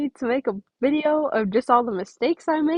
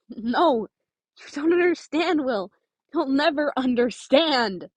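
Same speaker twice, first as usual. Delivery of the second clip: a mild, higher-pitched cry of frustration close to tears; understated yell with tears just under the surface; near-tears yell; 3 semitones higher than usual. Acted. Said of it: "Nico yelled back on the verge of tears".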